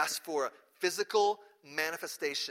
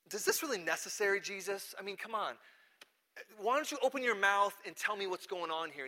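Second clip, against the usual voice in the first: higher-pitched impatient pleading; exasperated; 4 semitones higher than usual. Retold or imitated. Pilate questions silent, battered Jesus, exasperated. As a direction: press him, a touch exasperated. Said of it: "And Pilate is exasperated".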